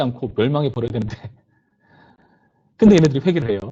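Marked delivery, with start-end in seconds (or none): 2.8-3.6 higher and louder, as if it is unexpected; spring the surprise on the listeners; surprised twist. Acted. Preacher telling the youth that Nineveh repents, surprised and louder.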